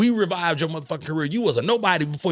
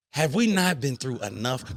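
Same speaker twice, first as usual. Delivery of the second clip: emotional; 3 semitones lower, slower than usual. Real, not acted. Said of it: "because I'm emotional right now".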